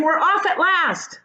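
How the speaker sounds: high, slow laughing cheer; cheering creature at last; excited shout. A narrator's reading. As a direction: laugh out the good news. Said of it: "someone was shouting".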